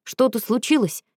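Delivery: slow, drowsy half-awake question; sleepy voice. A narrator's reading. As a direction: ask it like you've just been woken up. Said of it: "сонным голосом спросил".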